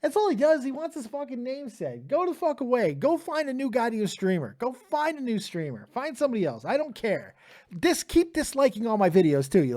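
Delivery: irritated outburst at the chat; angry rant. Real, not acted. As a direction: tell the troll to get lost, fed up. Streamer venting at annoying chatter.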